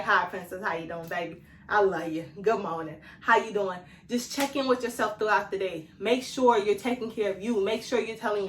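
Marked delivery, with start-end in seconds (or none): 0.0-3.8 tender self-talk. Retold or imitated. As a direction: coo to yourself like a baby. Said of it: "I gotta be like".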